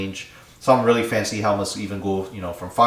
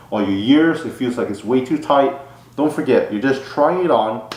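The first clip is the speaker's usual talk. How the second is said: talking muffled inside a helmet. Real, not acted. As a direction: voice muffled by a full-face helmet. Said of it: "hopefully you guys can still hear me".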